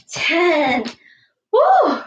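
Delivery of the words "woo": a high, bright whoop of relief; excited whoop. Real, not acted. Coach whooping after the jumping jacks, excited. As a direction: cheer like you just finished the set.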